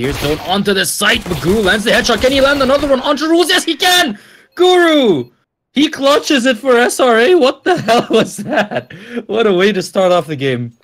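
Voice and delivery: rising to a screaming esports call; excited play-by-play. Real, not acted. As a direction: yell the clutch like a hyped caster. Caster calls clutch headshots.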